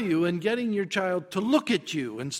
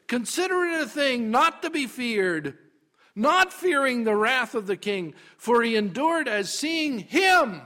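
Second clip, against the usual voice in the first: high, loud, driving proclamation; ringing pulpit climax; triumphant preaching; 6 semitones higher, 6 dB louder than usual. Shown as a demonstration. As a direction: proclaim the verse at full force.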